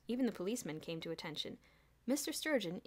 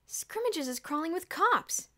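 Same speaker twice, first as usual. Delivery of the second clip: slow, high, loud excited announcement; excited exclaim; 9 semitones higher, 7 dB louder, slower than usual. A narrator's reading. Boots from the window, calling out excitedly. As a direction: shout the news up high and drawn out. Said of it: "Boots exclaimed".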